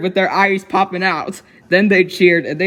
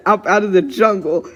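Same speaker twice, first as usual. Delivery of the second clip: usual speaking voice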